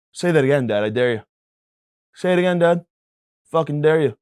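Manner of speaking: put-on a nine-year-old menace daring dad; threatening kid.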